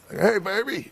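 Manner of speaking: put-on sheepish hey baby. Sheepish greeting to angry wife.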